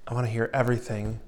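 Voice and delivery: a hushed, tender reassurance; gentle whisper. Retold or imitated. Preacher voicing the Lord to listeners, gentle and hushed. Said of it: "through a gentle whisper".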